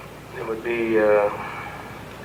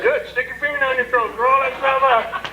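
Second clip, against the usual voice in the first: much higher gleeful order; 11 semitones higher than usual. Retold or imitated. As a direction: egg him on, delighted. Gleeful instruction.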